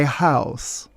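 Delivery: "house" drawn out on a long "ow"; elongated vowel. Shown as a demonstration. Mocking new money, "house" with a vulgar elongated vowel. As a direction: stretch the vowel in "house", slowly. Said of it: "elongated vowels".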